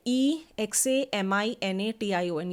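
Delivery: slow, letter-by-letter spelling; spelled out. Shown as a demonstration. Teacher breaking an exam word for students, spelled out. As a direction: spell it out slowly, one letter at a time. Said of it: "पहले आप उसे break करेंगे".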